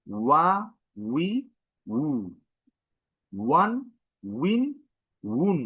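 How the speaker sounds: ওয়া, উই, উ, ওয়ান, উইন, উন each apart, with a w glide; pushed w sound. Shown as a demonstration. Teacher repeats the syllable drill, pushing the w. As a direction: push each from ওয়া to উন, pitch rising. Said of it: "একটা force নিয়ে বের হচ্ছে".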